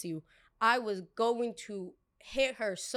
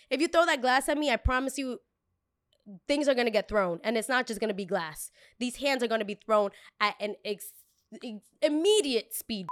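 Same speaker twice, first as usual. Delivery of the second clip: threatening; 2 semitones higher, 4 dB louder than usual. Retold or imitated. Threatening customer.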